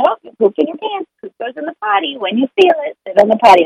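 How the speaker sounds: put-on name it plainly for the child; a parent calmly pointing the child to the potty; matter-of-fact to toddler.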